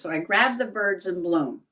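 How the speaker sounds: breathless after up and down; out of breath. Real, not acted. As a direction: talk while catching breath. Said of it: "That's why I'm out of breath".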